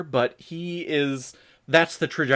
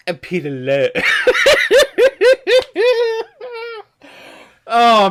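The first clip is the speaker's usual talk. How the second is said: laughing hard; 10 dB louder than usual. Real, not acted. Bursts out laughing at the film.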